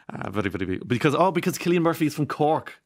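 lightly voiced Taoiseach, halting and hesitant; a hint of the minister, stumbling over very and because; Micheál Martin impression. Radio host mimics the minister, lightly voiced and halting. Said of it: "I nearly forgot to do it as Michal".

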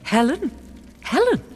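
high, loud, incredulous shout; furious outburst. Acted. Queen answers accusation about Helen, furious outburst. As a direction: climb from sharp question to full yell.

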